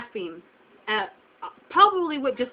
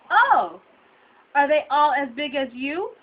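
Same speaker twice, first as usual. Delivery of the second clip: raised "Oh", then an incredulous question climbing at the end; mock-astonished question; 3 semitones higher, 5 dB louder, slower than usual. Butcher asking a shopper about her family, mock astonishment.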